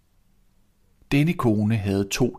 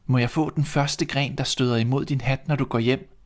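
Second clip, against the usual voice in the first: lightly higher, shy request; gentle Cinderella; 5 semitones higher than usual. Acted. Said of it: "sagde hun". (let højere, genert bøn)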